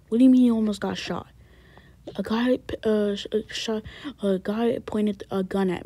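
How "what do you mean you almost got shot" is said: loud, fast shocked question; alarmed. Acted. Father hearing his son nearly got shot. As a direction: blurt it out in alarm.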